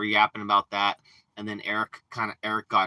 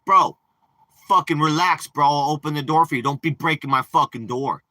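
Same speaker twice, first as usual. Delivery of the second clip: much higher, louder angry shout; retold shout; 6 semitones higher, 8 dB louder than usual. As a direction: yell at him to quit bashing the door. Yelling at him to stop.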